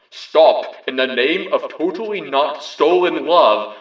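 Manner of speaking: loud commanding halt; mock police shout; police yell. A narrator's reading. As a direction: bellow it like a cop. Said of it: "the changeling police yelled".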